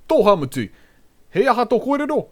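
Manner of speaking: loud, high scolding call-out; calling out shout. Shown as a demonstration. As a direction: call him out on his lies. Calling someone out on bullshit.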